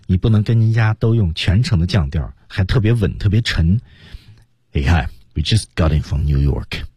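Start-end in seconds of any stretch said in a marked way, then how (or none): 4.7-6.8 low, heavy, cold falling delivery; unfriendly intruder. Shown as a demonstration. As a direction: sound like you're barging in, not welcome. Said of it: "这种声音听着像入侵者". (像入侵者一样低沉冷淡)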